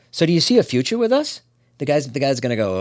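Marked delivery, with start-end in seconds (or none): 0.1-1.4 put-on high, loud eager girlfriend question. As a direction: play the hopeful girlfriend asking. Voicing girlfriend asking on date.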